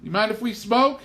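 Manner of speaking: a hint of a polite city lady; mother asking the hostess politely. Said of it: "Mother said to Missus Kettle".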